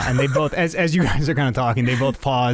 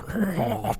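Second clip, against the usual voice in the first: throaty gurgling rattle; zombie gurgle; 7 semitones higher, 5 dB quieter than usual. Acted.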